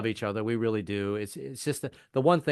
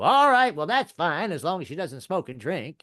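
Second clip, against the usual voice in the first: high, loud burst easing down to grudging acceptance; preacher grandfather; 4 semitones higher, 3 dB louder than usual. Acted. Grandfather accepting his grandson's girlfriend, high exasperated preacher voice easing off. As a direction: start up high as mock-exasperated grandpa, then settle. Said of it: "Well, Grandpa".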